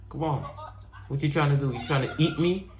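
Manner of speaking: dub the bird like a cartoon; voicing a turkey. Voicing animals in video.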